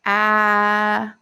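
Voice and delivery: "ah" as an open short a /æ/; isolated short-vowel "ah"; short a sound. Shown as a demonstration. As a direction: sound out "ah" cleanly like a phonics card. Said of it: "Where is the".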